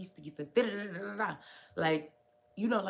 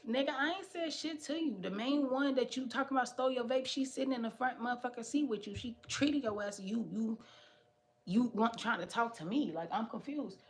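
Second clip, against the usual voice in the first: indignant retort; 5 semitones higher than usual. Retold or imitated. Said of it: "And I'm like".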